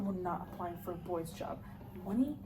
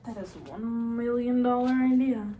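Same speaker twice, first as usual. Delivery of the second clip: thrilled; 8 dB louder than usual. Acted. Father thrilled by sporting goods plan.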